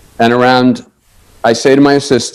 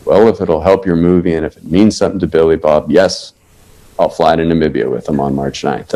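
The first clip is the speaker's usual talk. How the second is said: put-on agreeable older man; 9 semitones lower, 4 dB quieter than usual. Pat Boone agrees after long pause.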